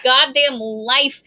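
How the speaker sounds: slow, tired, fed-up voice; weary mock god. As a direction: sigh it out like a god done with life. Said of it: "Apollo got tired and was like".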